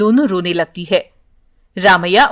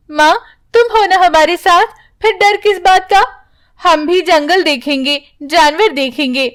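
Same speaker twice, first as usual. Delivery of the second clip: put-on higher, eager childlike voice; eager young daughter; 5 semitones higher than usual. Daughter tells mother not to fear, higher eager voice. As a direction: cheerfully talk mother round.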